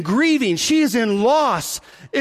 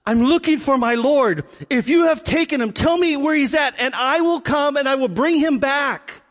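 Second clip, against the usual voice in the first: higher-pitched urgent plea; lightly acted desperate plea, pitched up; crying Mary pleading; 5 semitones higher than usual. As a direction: plead a little higher, as a woman searching in grief. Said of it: "So as she's crying".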